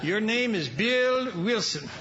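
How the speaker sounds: Bill stretched out slowly in disbelief; slow dawning surprise. Real, not acted. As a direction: let it dawn on you slowly. Stunned realization of the name.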